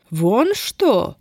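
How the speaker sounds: a sneering, mocking question. A narrator's reading. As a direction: let the scorn drip off it. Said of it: "насмешливо спросила упыриха". (насмешливо)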